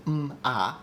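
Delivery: "m, a" as two isolated sounds; separated phonemes. Shown as a demonstration. Linguist showing the phonemes of ma, "m, a" sounded separately. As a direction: hum "m", then sound out "a" alone. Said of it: "all the same phonemes".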